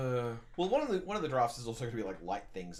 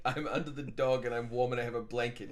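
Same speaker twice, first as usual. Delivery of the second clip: lightly voiced cozy goblin; a hint of a pampered goblin demanding treats. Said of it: "That's the goblin voice".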